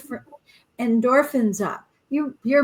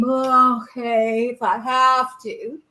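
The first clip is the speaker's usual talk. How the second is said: grudging reluctance; slower than usual. Retold or imitated. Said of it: "you can choose to be".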